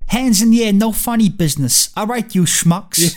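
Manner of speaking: hammed-up old-movie New York tough talk; Tallulah. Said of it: "Her introduction scene".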